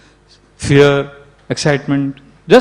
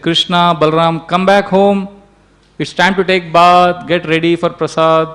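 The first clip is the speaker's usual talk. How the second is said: mildly raised, higher-pitched motherly call; calling children home; 3 semitones higher than usual. Acted. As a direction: call the playing boys in, drawing out the words. Mother calls children home from play.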